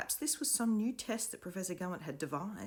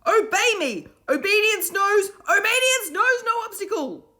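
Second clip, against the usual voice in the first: high, loud order to stand; commanding shout; 12 dB louder than usual. A narrator's reading. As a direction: command the crowd to rise. Will commanding.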